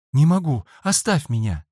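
high, loud refusal; frightened boy refuses to tell his friend; upset outcry. A narrator's reading. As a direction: cry out to be left alone.

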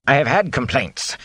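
lightly voiced nervous innkeeper; a mild, harried innkeeper. Innkeeper nervously raising guests' complaints, lightly voiced.

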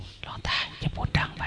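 hushed unvoiced whisper. Mother whispering to the monk not to wake her daughter. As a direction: whisper urgently so the sleeping girl won't wake.

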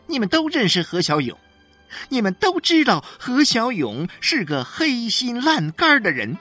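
high, loud and ringing, building to a wail; loud public proclaiming. A narrator's reading. 许玉兰 to the neighbours at 何小勇's door, loud and high. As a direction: proclaim it to the whole street, voice thrown high. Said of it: "然后她亮起自己的嗓子，对周围的人诉说了起来".

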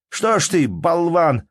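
angry shout. A narrator's reading. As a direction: bark at the lazy servant. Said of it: "повторил Калинович".

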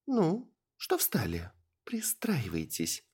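slow, husky whisper. Acted. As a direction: urge them on under the breath, slowly. Elf urges them on quietly. (медленный шёпот)

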